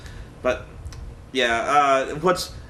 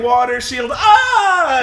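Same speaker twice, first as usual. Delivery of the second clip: much higher, louder shriek breaking into laughter; laughing mock shriek; 8 semitones higher, 6 dB louder, much slower than usual. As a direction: squeal the block and scream, cracking up. Mocking the girl blocking the fireball.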